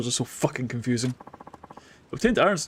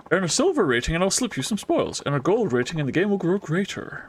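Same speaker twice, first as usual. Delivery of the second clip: voiced NPC accent; 3 semitones higher than usual. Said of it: "This accent has changed".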